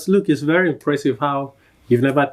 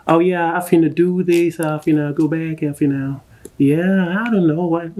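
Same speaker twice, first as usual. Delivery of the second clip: mock American slang; 4 semitones higher than usual. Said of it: "they just switch it up".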